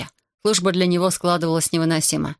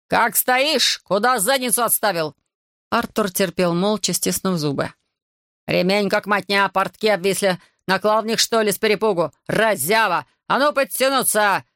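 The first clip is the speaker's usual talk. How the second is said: mocking abuse. Corporal abusing Artur.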